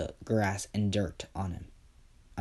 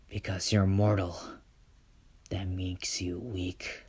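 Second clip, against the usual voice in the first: cold quiet reply; 3 dB quieter than usual. Acted. Enoch answers Izuku.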